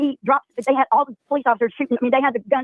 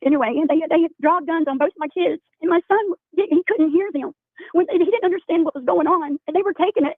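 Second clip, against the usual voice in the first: tearful retelling, fighting to keep talking; upset mother telling the host about her sons, near tears; voice lifted by tears; 4 semitones higher than usual. Real, not acted. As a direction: close to crying, pitch raised. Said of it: "You can cry".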